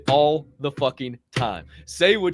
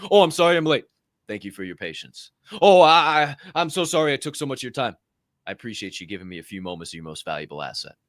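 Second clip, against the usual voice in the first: mock apologetic; 4 semitones lower, faster than usual. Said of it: "just change your rhetoric".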